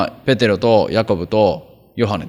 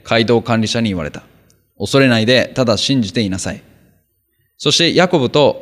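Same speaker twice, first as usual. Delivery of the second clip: steady, slightly raised reading voice; formal Bible reading, a bit louder than the talk; scripture reading; 3 dB louder than usual. Acted. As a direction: read the passage out to the congregation. Reads Mark 5 scripture aloud.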